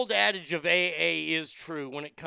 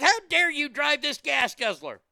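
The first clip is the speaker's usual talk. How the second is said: mock-indignant scolding, higher pitched; outraged Karen; 7 semitones higher, 4 dB louder than usual. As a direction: play an affronted busybody, pitched up. Mimics Karen confronting truck driver.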